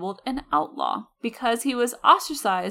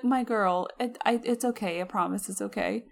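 comforting; 4 dB quieter than usual. Retold or imitated. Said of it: "I was like".

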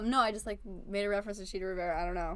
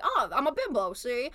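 put-on starlet; 4 dB louder than usual. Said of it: "I just put on it".

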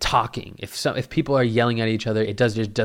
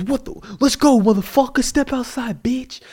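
high, louder taunting yell; mock challenge to fight; 13 semitones higher, 4 dB louder than usual. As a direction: call him out to fight. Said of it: "this dude was yelling".

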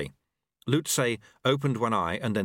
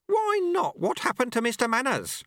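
higher, gently mocking old master; a wry old sweeper teaching his apprentice; old monk Lu Tse; 14 semitones higher than usual. A narrator's reading. Old master speaks to the dojo monks, wry.

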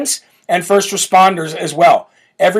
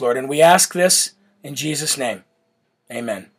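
earnest, lowered prayer voice. Real, not acted. Closing prayer for DeSantis' wife.

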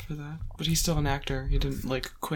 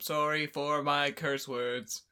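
mock robot; slower than usual. Friend mocking her apology.

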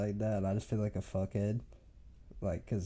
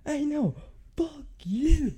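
high, louder shout back; imitated yell back; 5 dB louder, slower than usual. The big kid yelling back at David, a high mock shout. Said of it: "And the kid goes".

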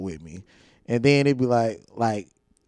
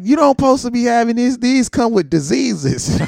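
lecturing teacher; 10 semitones higher, 5 dB louder than usual. Retold or imitated. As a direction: scold the kid. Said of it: "She was like".

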